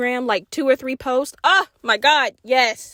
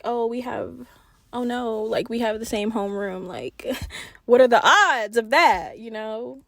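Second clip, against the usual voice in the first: casually. Retold or imitated. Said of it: "like, casually".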